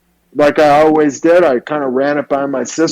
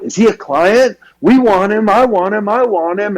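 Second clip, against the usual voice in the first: lightly voiced, high eager girls; a hint of giddy girls wanting him; swooning girls; 5 semitones higher than usual. Salon girls swooning over the boy, mildly high and eager. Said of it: "young girls there were like".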